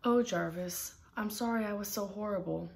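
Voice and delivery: pleading call. Acted. Edgar pleading for Jarvis.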